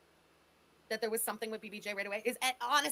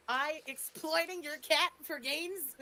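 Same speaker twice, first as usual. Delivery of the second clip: incredulous echo; 3 semitones higher, much slower than usual. Real, not acted. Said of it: "What the shit is she talking about".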